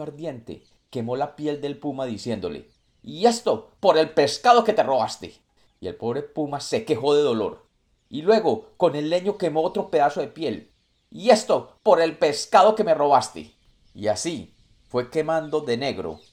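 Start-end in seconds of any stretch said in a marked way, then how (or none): 3.0-5.3 silky menacing villain. Acted. Monkey burns puma for each fish. 11.1-13.5 silky menacing villain. Acted. Monkey burns puma again.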